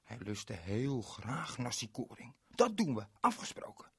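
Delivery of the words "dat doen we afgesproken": happy agreement. Acted. Berend agrees happily.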